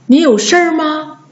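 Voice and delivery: 事儿 as one syllable "sher"; colloquial erhua. Shown as a demonstration. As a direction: ask casually with r-coloured 事儿. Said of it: "我们经常会这么说".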